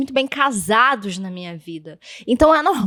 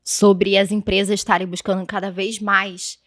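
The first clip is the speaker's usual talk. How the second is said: talking around a hard candy; words round a lozenge; candy in mouth. Real, not acted. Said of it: "eu tô com uma bala na boca".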